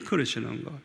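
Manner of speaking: normal talking voice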